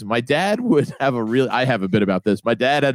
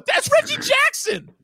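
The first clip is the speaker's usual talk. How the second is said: exasperated son. Retold or imitated. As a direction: spell it out to a clueless dad. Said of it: "I go".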